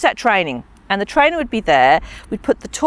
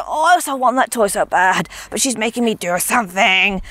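dog's thoughts. Retold or imitated. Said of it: "you could say".

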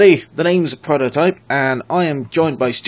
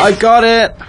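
excited shout; 8 semitones higher, 5 dB louder than usual. Real, not acted. Shooting the Hunter.

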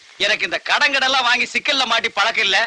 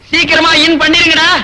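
higher, louder jeering command; loud sarcastic order; 4 semitones higher, 6 dB louder than usual. Acted. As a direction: call it out for everyone to hear. (உரக்க நக்கலாகக் கட்டளையிடுதல்)

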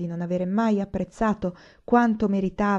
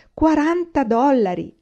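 slow, high, louder marvelling; amazed exclamation; 7 semitones higher, 6 dB louder, slower than usual. A narrator's reading. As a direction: savour the sum in disbelief. Laura marvels at the banknotes. (stupore lento ed esclamato)

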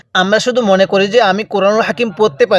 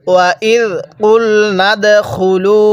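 drawn out tajweed chant; slow recitation; much slower than usual. Shown as a demonstration. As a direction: stretch every vowel, slow and measured. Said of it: "তাহলে কিভাবে পড়ব?".

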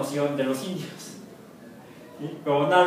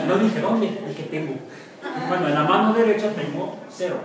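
laughing; 3 semitones higher, 5 dB louder than usual. Real, not acted. Teacher jokes, laughing at class.

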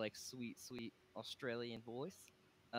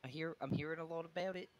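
friendly greeting voice; 6 semitones higher than usual. Pretend. Player speaking in character to creatures.

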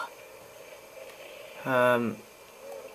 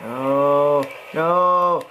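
panicked pleading; 2 semitones higher, much slower than usual. Real, not acted. Player pleading as enemies attack.

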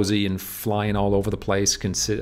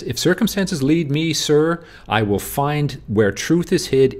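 higher, louder, slower, boasting promise; boastful vow; 7 semitones higher, 5 dB louder than usual. Retold or imitated. Lecturer voicing the spy master boasting to the king, higher and louder. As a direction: proclaim it proudly to the king. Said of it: "He says here, he says".

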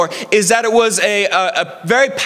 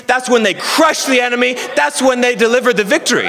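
triumphant proclamation; 3 semitones higher than usual. Acted. Triumphant climax of the story.

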